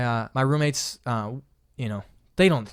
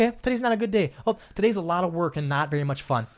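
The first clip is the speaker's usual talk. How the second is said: higher, lightly upbeat; breezy self-talk; 5 semitones higher than usual. Pretend. Telling yourself a bad day is fine, breezy. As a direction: shrug off a bad day brightly. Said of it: "It's just like".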